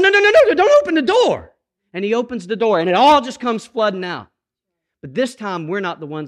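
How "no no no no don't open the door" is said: higher, louder panicked refusal; a desperate no, no, no, pushed high and loud; frantic pleading. Pretend. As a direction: beg him not to open it. Pleading with Jesus at closet.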